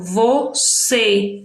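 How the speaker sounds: "Você" by syllables, closed ê at the end; closed vowel sound. Shown as a demonstration. Teacher illustrating the circumflex, "Você" with closed ending. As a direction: sound out "Você", closing the final ê. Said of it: "a sílaba vai ter um som fechado".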